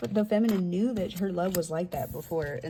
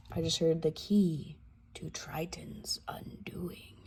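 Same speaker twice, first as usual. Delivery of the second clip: whisper; 3 semitones lower, 6 dB quieter, slower than usual. Real, not acted. Hushed aside after a reveal.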